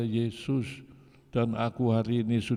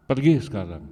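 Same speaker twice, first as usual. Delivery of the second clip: louder sharp command to go; angry command; 6 dB louder, faster than usual. Retold or imitated. Father orders his disowned son to go now, loud. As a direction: cut him off for good. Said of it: "Bapaknya bilang".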